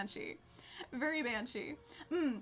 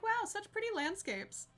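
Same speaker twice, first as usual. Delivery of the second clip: mock wonder; 8 semitones higher than usual. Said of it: "I'm like".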